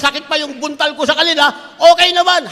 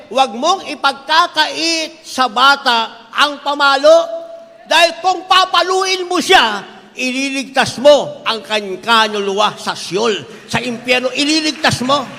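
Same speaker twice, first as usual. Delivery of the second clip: emphatic scripture quote; slower than usual. Acted. Pastor quoting scripture with force.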